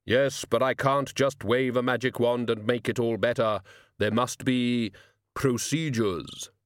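measured, formal voice of Death; self-justifying Death. Acted. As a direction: lay out the excuse with gravity.

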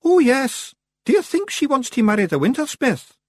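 high, loud, bright-eyed question; Billy waking up. A narrator's reading. Billy roused from his daze, high and wondering. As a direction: blurt it as if just roused. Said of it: "as if waking up".

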